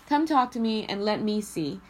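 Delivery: loud teasing invitation; coaxing come-on. Retold or imitated. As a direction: coax them closer, loud and playful. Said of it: "feeling and intonation".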